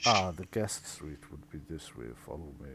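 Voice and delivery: very low, soft, long-suffering servant; deep weary murmur; weary butler. Acted. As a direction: sigh the words out like a put-upon butler.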